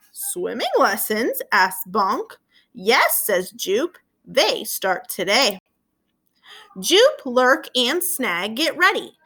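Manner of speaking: slow, lively storybook reading; gentle read-aloud voice with voiced characters; reading to children. A narrator's reading. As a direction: read it aloud to a class of young kids. Reads picture book to children.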